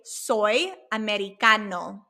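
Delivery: teacherly, evenly voiced "Soy americano"; Spanish demonstration. Shown as a demonstration. Teacher giving students the Spanish for American, clear demonstration. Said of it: "And you could say".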